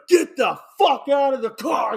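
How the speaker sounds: high, loud shouted order; rough mock shout. Retelling the actor pulling a gun, rough mock shout. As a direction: bark it like a rough gunman. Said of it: "he's being rough as shit".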